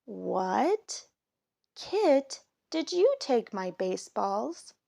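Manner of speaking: a dad suddenly missing his balls; surprised Daddy. Acted. Daddy asking Kit about the missing baseballs, startled.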